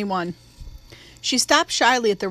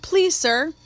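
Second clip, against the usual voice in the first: please pitched much higher, rising, begging; a last high begging please, sir; son's final plea to his father; pleading; 7 semitones higher than usual. A narrator's reading. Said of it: "pleaded Jim".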